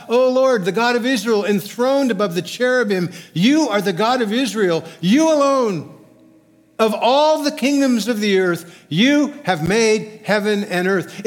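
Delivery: high, loud proclamation to God; fervent prayer. Retold or imitated. Preacher reads Hezekiah's prayer extolling God, fervent proclamation. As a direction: extol God at full, ringing force.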